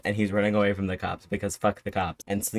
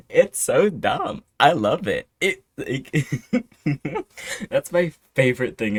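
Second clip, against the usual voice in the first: laughing through the words, high and slowed; giddy laughter breaking the sentence; giggly delight; 6 semitones higher, 4 dB louder than usual. Real, not acted. Laughing at favourite movie trope.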